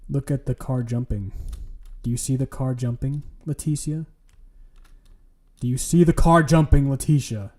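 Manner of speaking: lightly sing-song kindergarten teacher; talking down like to a small child. Pretend. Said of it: "Why are you talking like a kindergarten teacher?".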